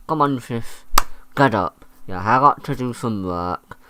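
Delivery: acted-out exasperated brother rousing his sister; fed-up brother. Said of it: "the brother has had enough".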